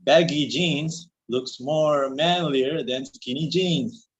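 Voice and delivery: slow sing-song delivery. Real, not acted. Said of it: "when you go into that sing-song tone".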